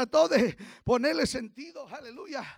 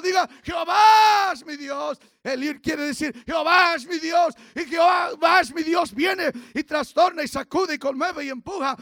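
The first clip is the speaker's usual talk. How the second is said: loud, rising preacher's cry of faith; full-force preaching; 4 dB louder than usual. Acted. Pastor rousing the church against hardship, full-force preaching. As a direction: preach it out to the congregation, building. Preaching climax, urging congregation.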